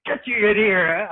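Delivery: loud, high, drawn-out scolding; scolding mother. Retold or imitated. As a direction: act out an alarmed mum calling her child in. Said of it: "and the mother goes".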